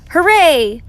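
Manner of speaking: high, loud hooray; joyful cheer. A narrator's reading. Baby Bear applauds the play, joyful cheer. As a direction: cheer with delight.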